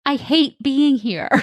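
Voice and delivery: put-on blunt kid. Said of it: "Same thing with my kid".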